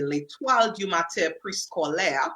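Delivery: French-accented pronunciation, lightly done. Shown as a demonstration. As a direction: say the school name with a French accent. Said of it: "I use my French accent".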